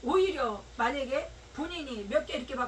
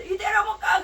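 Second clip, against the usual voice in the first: loud, higher shout; imitated shout, higher and louder; 6 semitones higher, 10 dB louder than usual. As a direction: belt it out like the woman sitting down.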